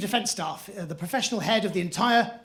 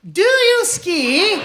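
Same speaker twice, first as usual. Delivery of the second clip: high, loud, very slow plummy question; posh snob; 12 semitones higher, 9 dB louder, much slower than usual. Retold or imitated. Friend at a house party corners the Geordie mate with a high loud posh drawl. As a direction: drag it out like a toff cornering someone. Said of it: "was going".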